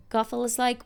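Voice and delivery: normal talking voice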